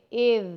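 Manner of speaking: اِذ with a clear short ee vowel; correct ee sound. Shown as a demonstration. Teacher corrects students to the ee sound of اِذ. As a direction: say اِذ with an ee, not an eh. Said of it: "no اے".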